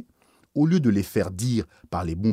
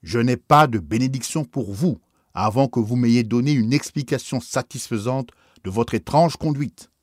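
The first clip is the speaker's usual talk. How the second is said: stern, louder bishop's rebuke; 2 semitones higher, 6 dB louder than usual. Acted. Bishop sternly rebuking the kneeling priest, louder. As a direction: refuse the blessing with cold severity. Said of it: "me dit, d'un ton sévère".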